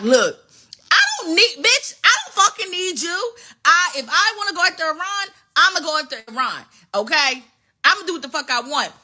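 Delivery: high, hammed-up defiant snarl; defiant Israel. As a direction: voice Israel brushing off America, mock-angry. Israel voiced in retold quarrel.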